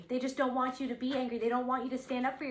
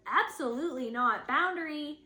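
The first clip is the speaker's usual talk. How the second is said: sharp, emphatic, louder no; firm refusal; 4 semitones higher, 5 dB louder than usual. Pretend. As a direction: draw a hard line, loud and firm. Voicing a firm stand for oneself.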